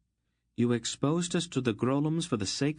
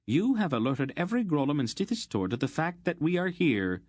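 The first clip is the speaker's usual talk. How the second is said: higher, scolding fury; furious scolding; 6 semitones higher than usual. A narrator's reading. Aunt Paul scolding Geryon for his rash magic, furious. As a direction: tear into him for his blunder. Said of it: "her eyes blazing".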